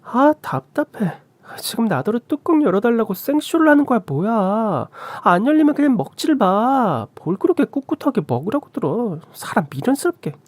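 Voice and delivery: high-pitched exasperated jeering; sarcastic, fed-up high voice; sneering sister-in-law. A narrator's reading. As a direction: needle them in a high, scornful voice. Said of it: "꼴 보기 싫다고 비아냥댔습니다".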